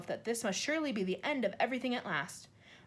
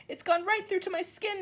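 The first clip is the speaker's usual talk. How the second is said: groaned; 8 semitones higher, 3 dB louder than usual. A narrator's reading. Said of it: "the earthworm groaned".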